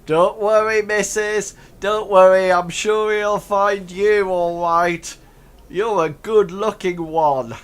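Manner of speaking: high, very loud ruffian; teasing ruffian. Acted. Laughing ruffian teasing the missus, loud and high. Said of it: "laugh, and he says".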